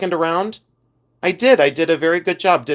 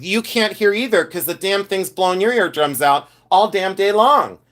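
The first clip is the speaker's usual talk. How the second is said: retold rant; 5 semitones higher than usual. Retold rant at the drive-thru lady.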